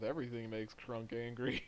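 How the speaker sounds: a light mumble under the breath; understated character grumble; Grognak mumbling. Acted. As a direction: mutter it as a softened aside. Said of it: "Grognak kind of mumbles un-, under his breath".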